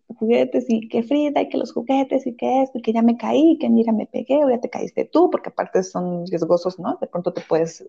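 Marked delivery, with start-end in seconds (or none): 0.1-5.3 higher-pitched, lightly acted squabble; mock bickering. Mother imitating squabbles with her daughter over toys, lightly bickering. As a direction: rattle off complaints in a mild mock argument. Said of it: "ella y yo estaríamos discutiendo".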